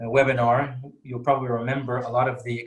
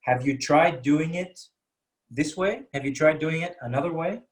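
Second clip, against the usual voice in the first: polite question; 2 semitones higher than usual. Shown as a demonstration. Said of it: "say it with a question".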